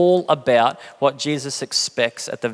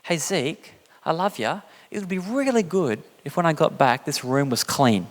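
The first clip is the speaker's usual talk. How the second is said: gentle dad. Retold or imitated. Dad asks son Zeke to clean his room, gentle. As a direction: sweet-talk the boy before the catch. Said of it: "I've done this to my children".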